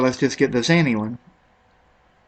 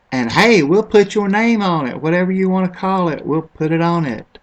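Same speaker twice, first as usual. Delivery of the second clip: higher-pitched mock company pitch; company sales pitch; 4 semitones higher than usual. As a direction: pitch it like an eager-to-please supplier. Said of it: "It's like a company printed billions".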